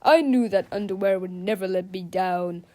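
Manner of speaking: loud, proud heroic voice; triumphant hero. Acted. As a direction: crow with pride. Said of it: "cried the good captain".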